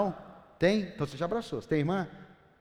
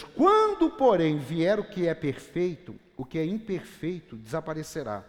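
loud slow emphatic Bible reading; forceful scripture preaching; 4 dB louder than usual. Acted. Pastor proclaiming 1 Corinthians 13 to the church, loud and slow. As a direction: proclaim the verses with weight.

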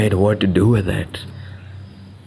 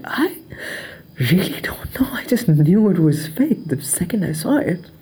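mock hushed confession; 9 semitones higher than usual. Expert admits pure gut feeling.

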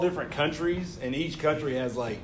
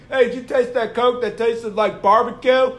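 louder, higher acted-out question; eager mock question; 5 semitones higher, 5 dB louder than usual. Fellow taster asking about the barbecue Coke, eagerly. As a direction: imitate someone eager to compare notes.

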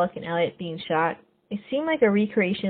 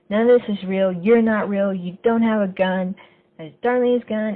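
louder mock yell at the figures; retold yelling; 2 semitones higher, 4 dB louder than usual. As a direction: insist loudly it's not real. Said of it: "He's yelling at Mister Robot".

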